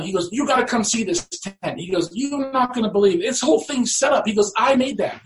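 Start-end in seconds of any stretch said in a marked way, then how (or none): 0.3-1.8 higher, eager kid's voice, lightly played; excited kid. Kid excited about fixed tent. 2.1-4.3 higher, eager kid's voice, lightly played; excited kid. Kid excited about fixed tent. 4.6-5.2 higher, beaming kid's boast, lightly voiced; proud excited kid. Kid proud of his tent.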